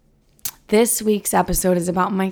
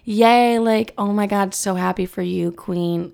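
self hype-up; slower than usual. Retold or imitated. Hyping herself up over the milestone, mock cheer. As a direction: cheer yourself on like a hype friend. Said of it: "literally talking to myself".

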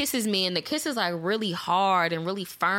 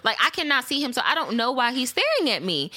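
retold exasperation; 6 semitones higher than usual. Retold argument with jealous boyfriend.

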